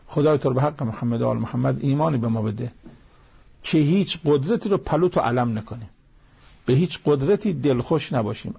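earnest closing supplication, lightly voiced; prayer. Preacher ends the sermon praying for the congregation, earnest prayer. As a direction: pray it calmly to God.

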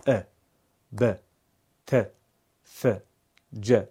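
ا ب ت ف ج each one short beat; one-beat fatha. Shown as a demonstration. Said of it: "به اندازهٔ زدن یک ضربه". (فتحه به اندازهٔ یک ضربه)

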